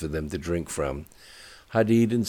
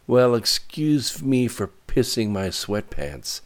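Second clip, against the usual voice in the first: shouting back through tears; tearful shout; 7 semitones higher, 4 dB louder than usual. A narrator's reading. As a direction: yell it, close to crying. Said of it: "shouted Katie back at him through her tears".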